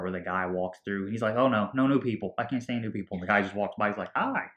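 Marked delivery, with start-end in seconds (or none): 1.4-3.2 louder mock panic; mock freak-out. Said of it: "Mark is freaking out". 4.2-4.5 very high, cheery little hello; mock happy greeting. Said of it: "He's all happy".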